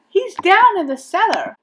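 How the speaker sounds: high, loud alarm; urgent call. A narrator's reading. Boy telling policeman where fish is, urgent high voice. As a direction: tell him urgently where to go.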